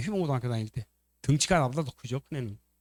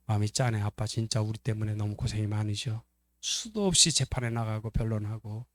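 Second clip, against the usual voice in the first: lower, softer acted sympathy; tender pity; 4 semitones lower, 5 dB quieter than usual. Loving son pities hard-working Dad, tender. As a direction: quietly feel for Dad's hardship. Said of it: "이렇게 말할걸요".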